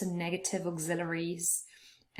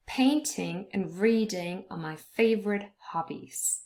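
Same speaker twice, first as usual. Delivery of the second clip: "Painting", "reading", "favorite", "hobbies" stressed on first syllables; stress on content words. Shown as a demonstration. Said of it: "those syllables are stressed".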